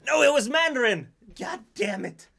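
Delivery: mock-annoyed exclamation at a wrong answer; frustrated outburst. Real, not acted. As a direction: groan at losing the quiz. Quiz answer revealed wrong.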